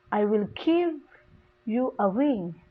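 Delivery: "give" stressed, pause, then falling "ring". Shown as a demonstration. Teacher repeating stressed verb for students, stress on "give". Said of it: "the stress is give".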